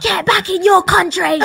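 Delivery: high, mocking shout of a racist local. Mocking a racist local who hears her accent. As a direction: ham up the bigot telling her to go home. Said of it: "They'll be like".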